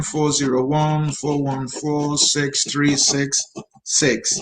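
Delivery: slow, measured digit by digit; slow dictation. Real, not acted. Host reading a phone number for the guest, slow dictation. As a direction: spell the number out slowly for writing down.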